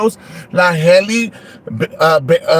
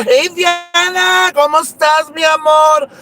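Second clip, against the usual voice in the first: drawn-out greeting; 8 semitones higher, slower than usual. Acted.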